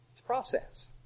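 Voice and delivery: unvoiced hushed aside; whisper. Real, not acted. Preacher quietly tells the congregation, whispered. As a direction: drop to a whisper. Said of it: "whispered aside".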